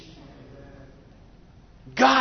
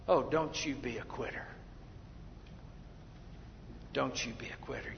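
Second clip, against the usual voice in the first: much softer, lower urging; soft plea; 8 semitones lower, 18 dB quieter, faster than usual. Acted. Preacher pleading softly with the congregation. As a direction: plead it gently.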